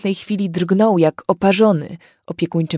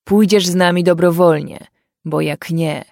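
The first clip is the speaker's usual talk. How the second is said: loud threat; 4 dB louder than usual. Acted. Fairy lord threatens the family.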